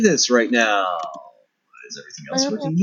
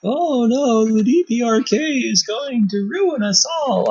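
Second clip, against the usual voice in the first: mock panic; 12 semitones higher, slower than usual. Mock panic about DPRK.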